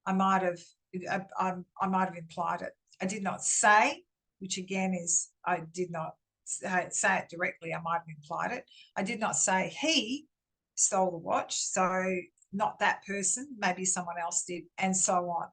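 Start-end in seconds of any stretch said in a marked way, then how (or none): 3.0-4.0 "say" lifted and punched; stress on SAY. Shown as a demonstration. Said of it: "it depends on where we put the emphasis". 9.0-11.6 "he" punched; single out "he" in the sentence; stress on HE. Shown as a demonstration. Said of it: "it depends on where we put the emphasis".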